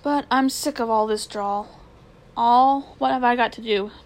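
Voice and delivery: fed up and blurting it out; exasperated outburst. Acted. Boy bursting out.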